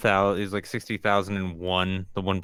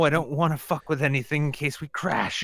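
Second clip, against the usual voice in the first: Poe voice; 10 semitones higher, 4 dB louder, faster than usual. Pretend. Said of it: "It's like".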